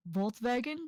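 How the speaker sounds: Volkswagen said the German way; "Volkswagen" as a German speaker says it; German-style pronunciation. Retold or imitated. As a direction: say Volkswagen with a German V sound in "wagen". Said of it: "every time he said Volkswagen".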